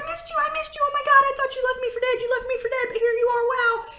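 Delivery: high, fast, squealing dog voice; high frantic puppy voice; excited pet voice. Pretend. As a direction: gush like a dog overjoyed to see its owner. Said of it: "They're like".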